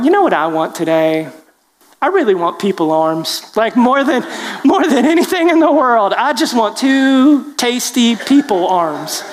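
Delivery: mock bear musing, rising to a high laughing peak; playful bear craving, breaking into laughter on the last line; comic bear daydreaming aloud, voiced lightly; hammed-up hungry bear. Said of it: "and go".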